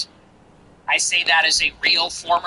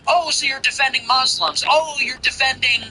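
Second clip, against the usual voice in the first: mocking quote; 5 semitones higher than usual. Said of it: "they trap you into this".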